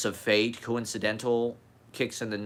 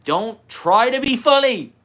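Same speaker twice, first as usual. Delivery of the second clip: high, slow preaching guru; 12 dB louder than usual. Pretend. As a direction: lay it down as the wise guru. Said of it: "As a guru".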